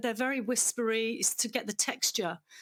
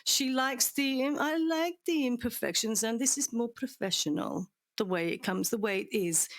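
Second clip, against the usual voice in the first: put-on Hungarian accent. Co-writer quoted in a strong Hungarian accent. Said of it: "in a very strong Hungarian accent".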